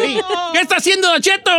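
high-pitched pretend whimper; mock tearful. Don Cheto demonstrates the teary emoji, mock about to cry. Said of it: "lagrimitas que van como a llorar".

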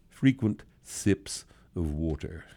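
slow, sneering parody of a health tip; mocking prissy advice. Host mocking bottled-water advice in a slow prissy voice. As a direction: drag it out like a fussy wellness slogan. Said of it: "I love it when I say it like that".

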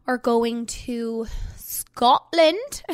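"Scotland" drawn out slowly, the way mom says it; mom's way of saying it. Retold or imitated. Telling fans about the family trip, imitating mom saying "Scotland". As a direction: stretch out "Scotland" fondly, like mom does. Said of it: "as my mom would say".

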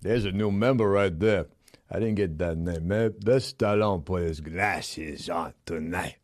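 lightly voiced Sylvester Stallone; Stallone impression. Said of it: "starring me, Sylvester Stallone".

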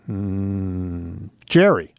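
father with dementia guessing his son's name, unsure; confused old father. Retold or imitated.

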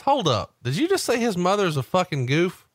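high-pitched, incredulous retold question; Booker T. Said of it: "Booker T has the line of the day as he's chewing an unlit cigar".

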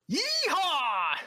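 Southern cowboy yeehaw. Retold or imitated. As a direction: play the monster as a Southern cowboy. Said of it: "do you have an American Southern accent".

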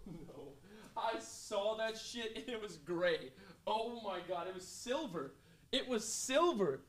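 hushed stunned whisper. Real, not acted. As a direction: breathe the words almost silently. Very quiet aside.

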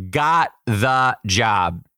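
slow, loud triumphant reveal; drawn-out victory line. Real, not acted. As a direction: savor every word of the win.

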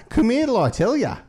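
hammed-up Irish beckoning; Dublin phrase. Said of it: "they were like".

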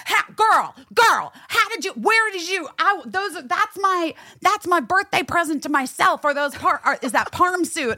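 high, gushing superfan babble; imitated screaming fan. Fan in a car spots birthday-present pants, high excited squealing. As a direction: stumble over yourself in high-pitched mock excitement. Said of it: "but screaming, you know".

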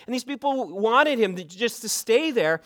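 ordinary talk

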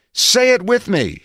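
high-pitched narrated yell to a crowd; Moulton. A narrator's reading. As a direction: call out for a response, pitched well up. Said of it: "he yelled".

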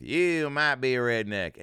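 slow, drawn-out catchphrase delivery; lightly voiced Southern comic, stretched out slow; Jeff Foxworthy. Comic imagines inventing the catchphrase, slow drawn-out delivery. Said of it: "coming up with".

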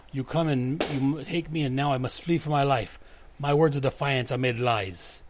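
put-on a light, understated Russian accent for the defector girl; Russian girl complaining in a weak Russian accent; mild Russian accent. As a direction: voice her in a half-hearted Russian accent. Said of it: "my horrendous Russian accent".

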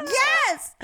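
high loud yelped yes; mock shocked yes. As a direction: exclaim it like she can't believe it. Confirming the friend cursed.

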